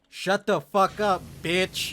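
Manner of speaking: acted-out rude shout down the phone; retold yelling. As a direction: yell it like a kid prank caller. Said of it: "we're both just yelling".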